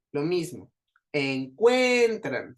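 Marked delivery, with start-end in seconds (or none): 1.1-2.6 Encuentran slow, middle CUEN swelling; stress on CUEN. Shown as a demonstration. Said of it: "suena más fuerte la de en medio". (Encuentran despacio, alargando la CUEN)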